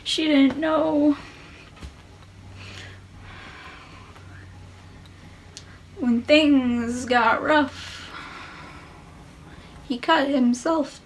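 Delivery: measured spoken-word poem, deliberate pauses; poem recitation. Acted. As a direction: perform a confessional poem, letting phrases hang in silence. Recites own poem after chatting.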